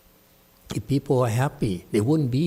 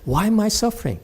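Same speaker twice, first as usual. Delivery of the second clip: raised mocking whine; a hint of mock whining; 6 semitones higher, faster than usual. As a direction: parody the student's complaint. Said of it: "you keep on whining and say".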